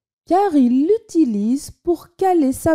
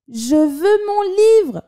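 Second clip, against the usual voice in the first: put-on high, slow child's yell; 8 semitones higher than usual. A narrator's reading. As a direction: shout it like a stubborn kid. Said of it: "hurla Marcel".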